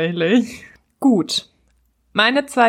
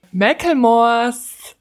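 slushy lisp; 3 semitones higher, much slower than usual. Shown as a demonstration. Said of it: "Wort mit deiner Spange sagst".

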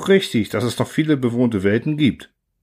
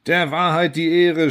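high, raised appeal to truth; shouted; 6 semitones higher than usual. A narrator's reading. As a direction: call out over the uproar. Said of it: "schrie ich".

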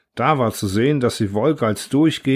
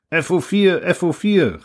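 raised, higher urgent call into the radio; radio operator calling out; 7 semitones higher than usual. A narrator's reading. Radio operator calling the missing pilot, urgent raised call. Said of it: "rief der Funker".

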